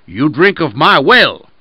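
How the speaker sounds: wolf hunting for a pretext against the lamb; accusing wolf. Acted. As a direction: press the accusation hard. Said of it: "Again said the wolf".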